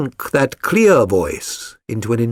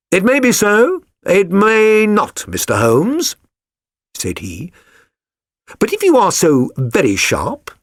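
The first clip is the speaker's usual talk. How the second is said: cold sneer; 6 semitones higher than usual. A narrator's reading. Exposed stepfather defying Holmes, cold sneer. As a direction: sneer it at him, unafraid. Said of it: "with a cold sneer".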